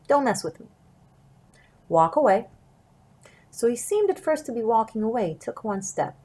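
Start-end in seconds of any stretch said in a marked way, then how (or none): 0.1-0.7 firm. Shown as a demonstration. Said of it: "in a firm way that makes it clear". 1.9-2.5 firm. Shown as a demonstration. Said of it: "in a firm way that makes it clear".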